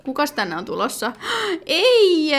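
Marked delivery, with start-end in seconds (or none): 1.4-2.3 gasping in shock; gasp, then a sharp high no. Real, not acted. Gasping no as she sees who arrives over.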